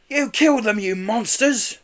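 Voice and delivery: high, loud accusing yell. A narrator's reading. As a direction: hurl it at the villains. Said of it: "yelled Kenny".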